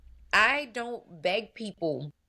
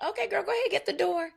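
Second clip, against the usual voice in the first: mock client voice; 12 semitones higher, faster than usual. Retold clients, voiced mockingly.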